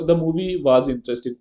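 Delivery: very slow, word by word; slow example reading. Shown as a demonstration. Teacher dictating the example sentence, very slow. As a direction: read the example slowly for the students.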